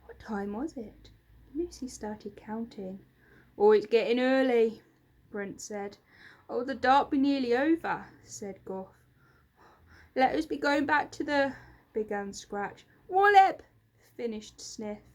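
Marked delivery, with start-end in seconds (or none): 3.6-4.8 a curious little creaker peering up; sneaky storybook goblin asking. Acted. 6.5-8.1 high, loud goblin creature; a curious little creaker peering up; sneaky storybook goblin asking. Acted. 10.1-11.6 high, loud goblin creature; a curious little creaker peering up; sneaky storybook goblin asking. Acted. 13.1-13.6 high, loud goblin creature; a curious little creaker peering up; sneaky storybook goblin asking. Acted.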